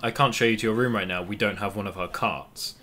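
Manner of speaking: mock apology to a guest, settling down by the end; hotel staff refusal. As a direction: act out hotel staff turning someone away.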